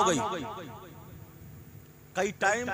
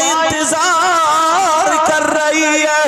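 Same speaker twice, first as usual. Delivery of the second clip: raised, ringing call to go home; fervent preached call; 2 semitones higher than usual. Acted. Preacher voicing the prophet to the boy, fervent raised call. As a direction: cry out like sending a child home.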